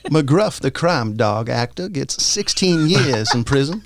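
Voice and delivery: put-on a light, half-hearted Southern Belle accent. Reading a news story for the game dare, lightly put-on Southern Belle accent. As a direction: read the headline with a lightly put-on Southern drawl. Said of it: "Southern accent".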